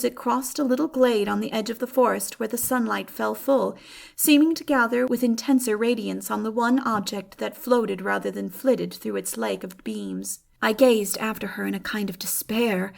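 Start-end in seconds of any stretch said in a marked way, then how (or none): none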